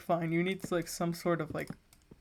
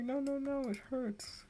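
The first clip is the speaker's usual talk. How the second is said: much higher mock whine; high, hammed-up whining no no no; whiny kid; 7 semitones higher, 5 dB quieter, slower than usual. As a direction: imitate the cousin faking pain. Kid refusing help again.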